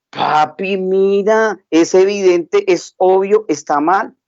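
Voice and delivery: put-on a small girl stating the obvious to papa; little girl.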